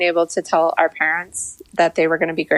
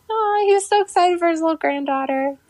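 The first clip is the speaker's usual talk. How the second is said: teary-eyed; 11 semitones higher than usual. Retold or imitated. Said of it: "all teary-eyed in his voice".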